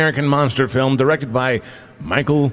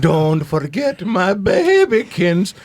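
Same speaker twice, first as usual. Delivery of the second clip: monster quote; 5 semitones higher, much slower than usual. Retold or imitated. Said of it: "where he talked".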